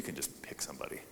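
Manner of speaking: soft whispered aside; whispering. Real, not acted. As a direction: whisper it off-mic. Aside to a helper.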